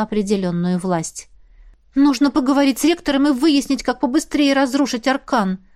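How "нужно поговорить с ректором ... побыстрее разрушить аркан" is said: higher, confident declaration; confident exclamation. Acted. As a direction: say it with resolve. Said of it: "уверенно воскликнула". (уверенное восклицание)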